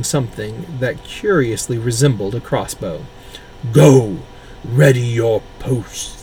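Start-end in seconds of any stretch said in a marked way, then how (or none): 3.7-6.2 loud, slow commanding order; booming commander voice. Acted. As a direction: bark orders at the troops. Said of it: "the voice boomed".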